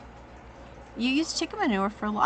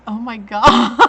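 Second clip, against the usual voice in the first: loud cry; 12 dB louder, slower than usual. Retold or imitated. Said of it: "I was just like".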